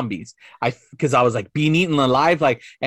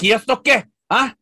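imitating dad; 7 semitones higher than usual. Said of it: "my dad would be like".

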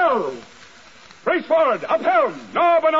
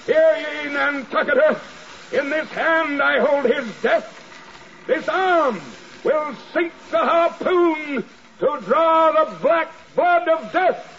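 defiant shout; 4 semitones lower than usual. Acted. Ahab boasts of killing the whale.

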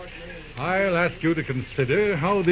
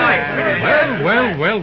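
well well well, climbing high and loud; a sharp, scolding "well well"; exclamation of surprise; 7 semitones higher, 6 dB louder, much slower than usual. Acted. Judge scolding the mob.

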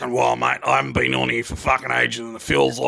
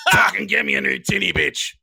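demanding mock holler, higher at the start; imitated yell; 4 semitones higher than usual. Man demanding a new tinny from his partner, mock yell. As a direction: holler an order across the house. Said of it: "I yell out to fucking Margarine in the background".

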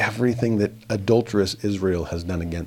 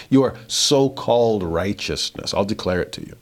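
sarcastic. Retold or imitated. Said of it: "He's saying this very sarcastically".

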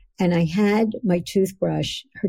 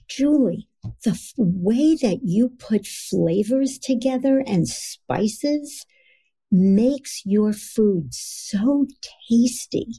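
slow, higher, detailed heartfelt praise; descriptive praise; 4 semitones higher, slower than usual. Shown as a demonstration. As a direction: savour each detail of the praise. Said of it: "But if I say to you".

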